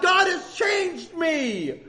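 very slow; slow testimony; slow emphatic. Real, not acted. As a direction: let each word land. Preaching slowly.

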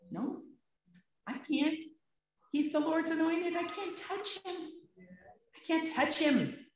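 high, earnest refusal, a touch strained; voicing David's refusal high and earnest. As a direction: lift the pitch as David pleads he can't. David refuses to harm Saul.

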